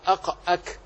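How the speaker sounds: two short closed syllables, heavy أق then lighter أك; articulation points. Shown as a demonstration. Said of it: "والكاف أسفل منه قليلًا".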